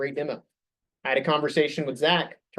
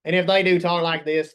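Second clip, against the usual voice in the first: louder, firm voice to stand behind; confident voice; 3 semitones higher, 6 dB louder than usual. Shown as a demonstration. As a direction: project it with confidence. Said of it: "have a voice that they stand behind".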